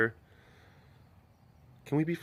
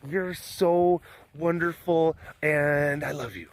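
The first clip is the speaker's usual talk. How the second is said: a hint of a smitten young lioness; voicing the lion Selena; 4 semitones higher than usual. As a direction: give the cat a gentle, adoring little voice. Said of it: "saying, like".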